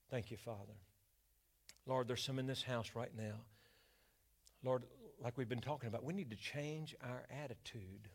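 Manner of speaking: leading the church in prayer. Acted. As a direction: pray over the congregation, then rise. Leads a prayer.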